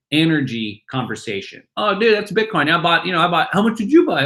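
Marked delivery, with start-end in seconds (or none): 1.8-4.2 higher, eager chatter; excited bar guy. Retold or imitated. Bar patrons quizzing each other about Bitcoin, excited. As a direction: get hyped about the coin.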